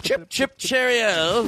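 high, perky chirpy delivery; chipper voice. Pretend. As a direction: chirp it out cheerily. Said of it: "That's how, if I was gonna be that way".

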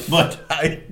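usual speaking voice

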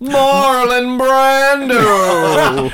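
announcer voice. Pretend. Announcing names in big voice.

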